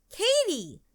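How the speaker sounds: very high, startled call; mom's high-pitched storybook shout. A narrator's reading. Mom finds Katie in the closet, high startled shout. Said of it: "shouted her mom".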